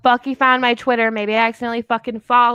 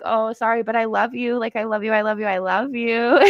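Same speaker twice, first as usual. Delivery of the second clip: laughing sweet-talk. Retold or imitated. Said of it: "And I was like".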